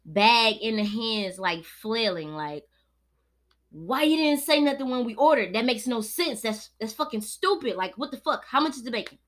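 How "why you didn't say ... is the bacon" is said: retold angry complaint. Retold outburst at the counter.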